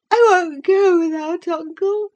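put-on high, loud tearful boy refusing; crying child. A narrator's reading. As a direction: wail it out as a scared child. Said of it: "he cried at length".

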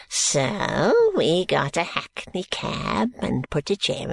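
put-on slow, gasping, wheezing old man; a decrepit old miser catching his breath. Grandfather Smallweed greeting George, slow and gasping.

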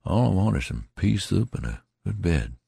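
lightly voiced weary soldier; tattered soldier, dreamy. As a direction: drift off thinking of soup. Tattered man answers.

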